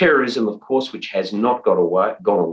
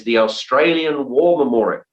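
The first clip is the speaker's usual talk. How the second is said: put-on understated Texan accent; 5 semitones higher than usual. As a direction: lightly mimic a Texas customs officer. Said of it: "in a thick, uh, Texan accent".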